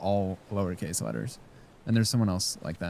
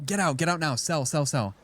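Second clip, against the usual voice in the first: higher, hurried play-acted sell alert; mock panicked warning; 6 semitones higher than usual. Streamer as scammer pings favoured role, mock urgent warning. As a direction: urge your insiders to bail, jokingly.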